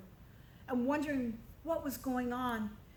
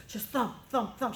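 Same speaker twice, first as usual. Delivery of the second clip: heartbeat thumps. Shown as a demonstration. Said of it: "her heart has just been beating like this".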